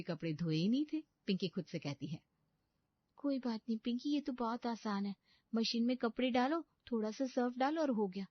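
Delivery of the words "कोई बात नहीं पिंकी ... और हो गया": put-on higher, girlish bride's voice, dismayed; a pampered young bride panicking to herself; young bride's voice, dismayed at waking early; naive young bride.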